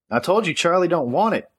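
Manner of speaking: high-pitched yell through the door. Acted. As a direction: shout it through a closed door. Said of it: "Amber yelled".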